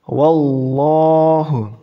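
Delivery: Wallahu whispered slowly, lam thick; whispered recitation of Wallahu; whispered heavy lam. Shown as a demonstration. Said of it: "dibaca tebal".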